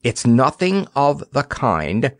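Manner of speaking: firm, slow, sharp denial; sharp contradiction. Acted. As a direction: cut him off firmly. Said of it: "Nickaboo contradicted him sharply".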